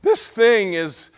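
high, loud cry that cracks; real crack on a slow, strained plea. Real, not acted. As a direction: push up high until the voice breaks. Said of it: "my voice is cracked again".

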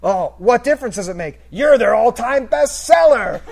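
loud, slow smug put-down; Riley topping George's line, loud and slow; deadpan topper. Retold or imitated. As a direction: cap him without missing a beat. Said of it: "doesn't even skip a beat".

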